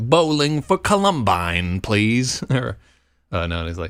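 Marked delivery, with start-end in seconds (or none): 0.0-2.4 exaggerated, drawn-out American accent. Retelling what a man said when he totally owned the speaker, exaggerated american accent. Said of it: "in this like exaggerated American accent".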